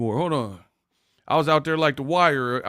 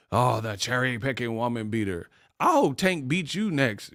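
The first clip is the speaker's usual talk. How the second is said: mocking quote; 2 semitones lower, 4 dB quieter than usual. Host reading back a troll's comment, lightly mocking. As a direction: parrot it with mild mockery.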